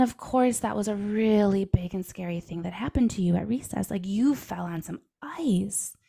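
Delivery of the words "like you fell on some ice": gentle whisper. Retold or imitated. Mom comforting son about his fall, whispering slowly. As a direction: whisper it like calming a child.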